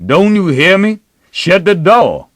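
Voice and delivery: loud, high angry command; mighty loud. A narrator's reading. Father repeats his order to the child, mighty loud. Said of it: "mighty loud".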